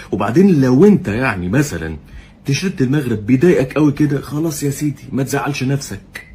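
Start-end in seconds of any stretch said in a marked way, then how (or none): 4.2-6.3 mock tender. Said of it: "بحاول ابقى حنين عليك".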